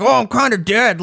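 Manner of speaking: high mock deadpan; dead man reply. The speaker answering for the dead biker, mock deadpan. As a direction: answer like a corpse, drily. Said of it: "He's like".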